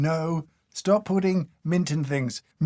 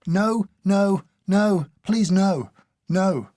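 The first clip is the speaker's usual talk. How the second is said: higher, louder pleading refusal; emphatic refusal; 3 semitones higher, 5 dB louder, much slower than usual. Real, not acted. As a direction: refuse it firmly, each word punched. Rejects artificial peppermint.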